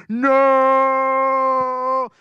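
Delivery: flat refusal. Retold or imitated. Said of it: "I'm like".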